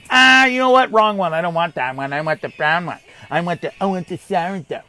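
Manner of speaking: lightly voiced picky shopper; a hint of a fussy shopper; mock fussy shopper. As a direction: imitate a dithering customer, mildly. Mocks a fussy gloved shopper.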